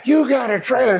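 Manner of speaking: high, loud hammed-up disbelief; mock amazement. Roommate marvels that his friend has a trailer, hammed-up awe. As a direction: ham up the jealous buddy.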